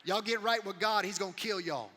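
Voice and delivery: shouted warning, pitched high and loud; fiery prophet shout. Acted. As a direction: bellow it at the whole city like a wild-eyed prophet. Jonah preaching to Nineveh.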